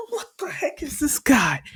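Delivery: high, breathless whisper of disbelief; stunned whisper. Acted. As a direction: whisper it, shaken by what you see. Zuko stunned by the villain.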